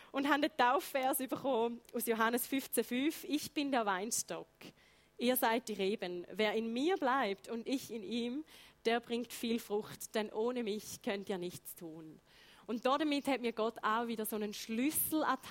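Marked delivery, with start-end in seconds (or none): 3.2-12.2 slow, deliberate scripture reading; Bible verse recital. Acted. Speaker reciting her baptism verse to listeners, slow and solemn. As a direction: recite it slowly in careful Standard German, letting each phrase settle.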